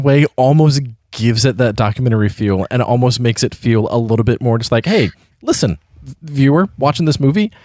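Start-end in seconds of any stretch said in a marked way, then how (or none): 4.9-7.5 lightly voiced old-timey narrator; a hint of an omniscient movie voice. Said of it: "I'm an old-timey movie voice".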